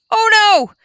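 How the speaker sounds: high, loud storybook gasp of surprise; surprised. Acted. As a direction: cry out at the spill. Story spill, exclaimed.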